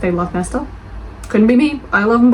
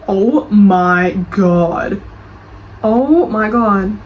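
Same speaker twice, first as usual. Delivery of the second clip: drawn-out shock; 3 dB louder, much slower than usual. Real, not acted. Shocked by long review.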